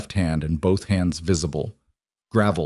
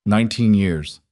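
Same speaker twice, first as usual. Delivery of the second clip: voice cracking. A narrator's reading. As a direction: voice cracking on nineteen years. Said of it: "His voice cracked".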